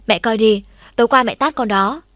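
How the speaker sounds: loud complaint. Acted. Boy complains to mother about slap.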